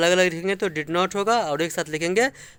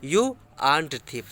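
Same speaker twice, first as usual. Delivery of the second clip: slow example; 3 semitones lower, much slower than usual. Shown as a demonstration. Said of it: "समझ में आ गई ये बात?".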